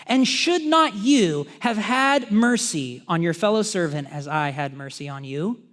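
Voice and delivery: slow, stern rebuke of a servant; stern master's rebuke. Acted. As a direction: lay it on him slowly, as the wronged master.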